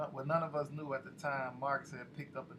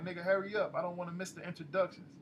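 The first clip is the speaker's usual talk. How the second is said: urgent, raised and rushed at his friend; impatient yell; 4 semitones higher, faster than usual. Acted. Duke yelling at Priest to hurry, impatient. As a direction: hurry up, we're late.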